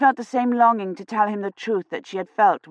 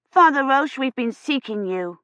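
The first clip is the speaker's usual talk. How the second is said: put-on eager child calling; 7 semitones higher than usual.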